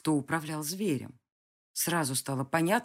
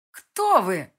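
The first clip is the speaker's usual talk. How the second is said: louder, thin startled question; 3 semitones higher, 10 dB louder than usual. Acted. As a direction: blurt it out thinly. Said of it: "поразившись тонкости собственного голоса". (тонкий испуганный голос)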